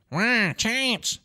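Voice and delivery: "chance" with a long soft ah, high and put-on; soft British A. Shown as a demonstration. Showing the soft A he picked up, "chance" as "chahnce". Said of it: "I would say chance instead of chance".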